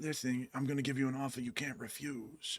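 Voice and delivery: very soft, hushed mob-boss voice. Describing the Godfather character to the other speaker, doing a Godfather impression. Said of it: "the Godfather guy... and he was like".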